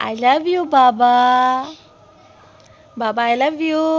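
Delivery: drawn-out loving. Real, not acted. Mother wins back her sulking son with slow loud love. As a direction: stretch it out to win him back.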